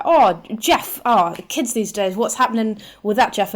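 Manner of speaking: lightly voiced tutting commentator, loud start; a hint of a grumbling commentator act; divorced commentator. Partners narrating strangers in the street, lightly voiced commentator. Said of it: "two divorced commentators who then just narrate".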